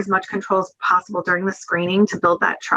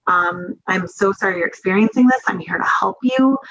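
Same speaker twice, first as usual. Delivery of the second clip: calm reassurance. Shown as a demonstration. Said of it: "You wanna make it seem like".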